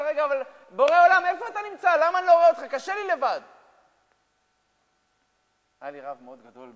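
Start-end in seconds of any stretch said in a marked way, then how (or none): 0.0-3.4 loud, high desperate plea; anguished cry to God. Acted. A man pleading with the Creator, loud and desperate. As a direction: call up to heaven in distress.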